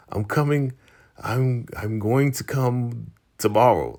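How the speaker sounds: halting imitation of someone busy on the phone; mock distracted reply. Woman busy in bed putting off Daikon on the phone, mock distracted.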